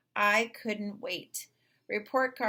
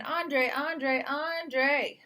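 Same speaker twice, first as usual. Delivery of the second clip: higher, louder proud calling of the name; excited calling; 6 semitones higher, 4 dB louder, much slower than usual. Acted. Mother calling her son about his honor roll, higher and louder. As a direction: call him like you can't contain your pride. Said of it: "Mama was saying".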